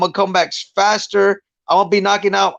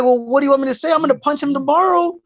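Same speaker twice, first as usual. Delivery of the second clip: mock retort; 6 semitones higher, faster than usual. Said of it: "I'm like".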